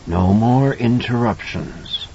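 slow, menacing creature voice; monster voice. A narrator's reading. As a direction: drawl the threat slowly. Monster speaks to Danny.

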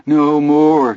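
high pleading after laughing; weakly. Acted. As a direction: gasp it out, spent from laughing. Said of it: "Chris said weakly".

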